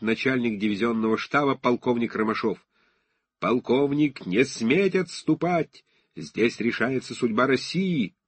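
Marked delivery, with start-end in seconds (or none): 3.4-8.1 commanding shout. Acted. Romashov's heroic command in daydream.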